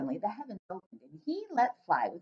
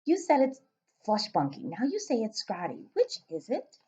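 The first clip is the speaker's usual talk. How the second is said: polite. Acted. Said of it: "Sophie asked politely".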